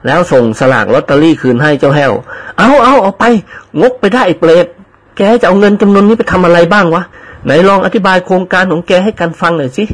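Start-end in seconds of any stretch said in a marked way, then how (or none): 2.6-9.8 higher, brusque friend's voice; mock scolding. Friend returns lottery ticket to servant, mock scolding. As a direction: shove the ticket back with mock annoyance.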